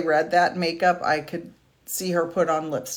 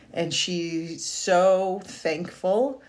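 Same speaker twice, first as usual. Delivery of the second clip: choking up; much slower than usual. Real, not acted. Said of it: "I'm gonna cry".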